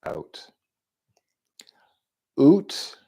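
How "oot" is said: "Oot" with a long oo sound, pitched high; trying out pronunciations. Shown as a demonstration. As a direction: say "Oot" high, as an odd version of out. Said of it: "how would America say out".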